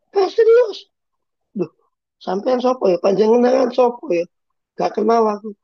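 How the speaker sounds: a high squeaky fan hailing the pastor across the room; eager Javanese congregant. Acted. Congregant calls to Pastor Yos from the pews, squeaky and high. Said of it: "Dikejar sampai pintu".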